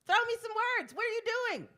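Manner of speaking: high, loud call to the crowd. Real, not acted. Host calling to the audience for words, loud and high. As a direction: shout it up to a silent room.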